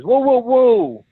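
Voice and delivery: high, slow, loud alarmed whoa; hammed-up panicky executive; mock shocked executive. Board executive balking at changes, loud alarmed whoa. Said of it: "their board of executives says".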